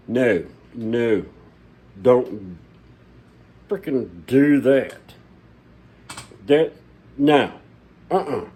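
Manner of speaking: slow, loud don't frickin' do that; warning his viewers off bad advice, loud and slow; emphatic warning. Real, not acted. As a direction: slam the door on that advice.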